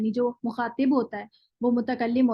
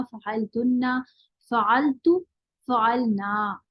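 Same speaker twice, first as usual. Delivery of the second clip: reciting a conjugation drill; slower than usual. Shown as a demonstration. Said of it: "फ़ाइला की वजन पे मैंने गर्दान बनाई".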